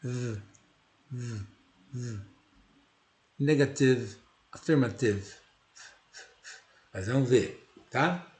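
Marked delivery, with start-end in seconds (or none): 0.0-2.2 buzzing "v" sounds, very soft; "v" buzz shown in exaggerated form. Shown as a demonstration. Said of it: "Eu vou exagerar pra vocês verem".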